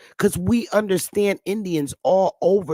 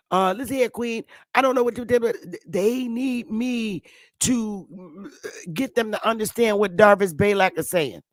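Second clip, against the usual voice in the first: imitating Darvis; 2 semitones higher than usual. Teasing his friend Darvis by mimicking his Southern accent. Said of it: "You know how Darvis talk".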